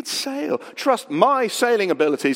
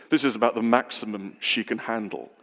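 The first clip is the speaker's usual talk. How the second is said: low, unruffled reassurance; very calm; 8 semitones lower than usual. Retold or imitated. Sailor friend to nervous novice as the sea blows up, very calm. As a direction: keep it low and understated, imitating a calm skipper. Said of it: "very calmly Tim said".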